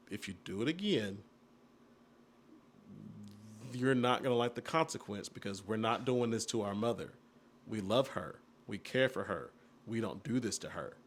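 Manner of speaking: low, measured and soft; quiet, firm fatherly warning; careful warning. Retold or imitated. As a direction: choose each word carefully, voice held down. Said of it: "I chose my words carefully".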